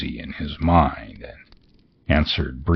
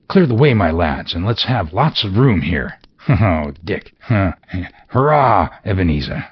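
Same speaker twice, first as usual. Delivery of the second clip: laughing Fezziwig; 4 semitones higher than usual. Acted. Fezziwig laughs and cheers as he clears the room. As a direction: whoop with joy, laughing.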